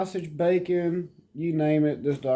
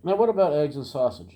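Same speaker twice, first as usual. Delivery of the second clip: excited pet talk; 4 semitones higher, 7 dB louder than usual. Real, not acted. Teasing the dog again.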